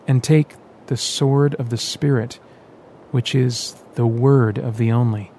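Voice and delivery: slow, reverent reading aloud; slow scripture recital; solemn reading. Acted. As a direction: read the sacred words with weight. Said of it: "he read the final words".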